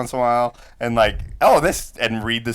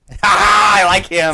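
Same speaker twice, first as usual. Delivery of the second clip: laughing; 6 semitones higher, 5 dB louder than usual. Real, not acted. Laughing at the joke.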